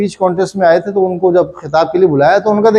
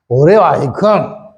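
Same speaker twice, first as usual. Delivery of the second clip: 1 tough guy; 3 semitones lower, much slower than usual. Pretend. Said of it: "खामखा चौड़ा हो जाता है".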